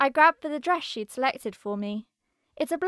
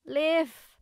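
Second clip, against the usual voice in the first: higher, whining complaint; whine; 4 semitones higher than usual. A narrator's reading. Narrator waking in her friend's body calls out to Liv, whining. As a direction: whine her name in protest. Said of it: "I whine as I sit up".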